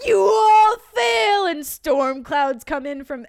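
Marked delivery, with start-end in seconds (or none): 0.1-1.4 slow, loud and high: you all fail; booming verdict. Retold or imitated. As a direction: thunder it down like a stern teacher. Kakashi catches them, storm clouds.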